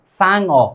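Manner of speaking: सांग अ broken in two, "saang, o"; wrongly split word. Shown as a demonstration. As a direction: split सांग अ, closing on ng before a separate vowel. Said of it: "बोलने में तो ऐसा ही लगता है".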